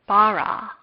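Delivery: bara, hit the last syllable; stress on last syllable. Shown as a demonstration. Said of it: "the last syllable of bara would be stressed".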